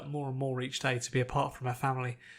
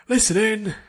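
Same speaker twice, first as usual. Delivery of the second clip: loud, high barked order; instructor's command; 8 semitones higher, 11 dB louder than usual. Acted. Instructor calling the training class to attention, loud command. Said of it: "the instructor's command".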